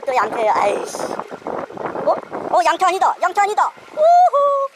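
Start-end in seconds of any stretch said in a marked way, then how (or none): 1.0-3.7 surprised. Real, not acted. Not the usual flathead. 3.9-4.7 high joyful whoop; excited whoop. Real, not acted. Big fish finally landed.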